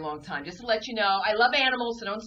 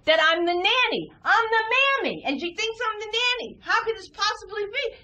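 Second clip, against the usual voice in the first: indignant; 11 semitones higher than usual. Retold or imitated. Indignant comic outrage.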